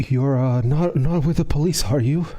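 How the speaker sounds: deeply, very concerned, worried voice. In a role-played scene, a person inside questions a visitor, very concerned voice. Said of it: "you hear a very concerned voice".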